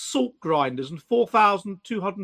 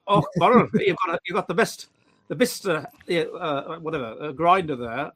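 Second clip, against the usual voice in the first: put-on Welsh accent; 3 semitones lower than usual. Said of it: "in, in a Welsh accent".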